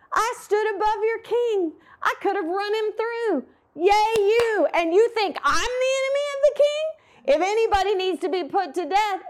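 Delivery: high, gloating call across the distance; David taunting Abner from a safe distance, high and gloating; taunting yell. Retold or imitated. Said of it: "and he yells".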